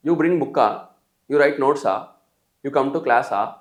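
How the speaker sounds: book-ఆ, notes-ఆ, class-ఆ each with an added "aa"; Telugu-style questions. Shown as a demonstration. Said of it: "add చేసి అది question".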